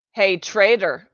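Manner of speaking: loud, jeering call across the hall; demanding shout. A narrator's reading. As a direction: bark it at the newcomer. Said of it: "a boy demanded".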